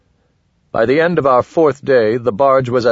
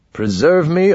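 mock pleading prayer; 8 semitones higher than usual. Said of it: "I've cried a thousand times".

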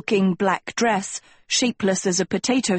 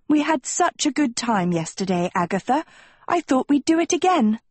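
light, high sugary coaxing voice; sweet-talking girl; 5 semitones higher than usual. Acted. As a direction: coax her like a fake-nice friend.

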